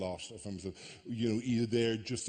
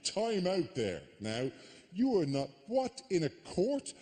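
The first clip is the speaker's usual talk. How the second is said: wag a finger at the psychic, half-joking; scolding a TV psychic, mock-stern and raised; mock lecture to Sally; 5 semitones higher than usual. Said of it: "a point where I go".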